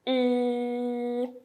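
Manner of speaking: teacher modelling sound; Mandarin final. Shown as a demonstration. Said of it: "One of it pronounced as".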